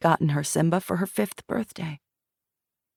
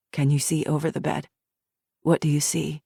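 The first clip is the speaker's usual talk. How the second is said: calm questioner. Acted. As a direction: gently prompt her to go on. Interviewer guides the memory.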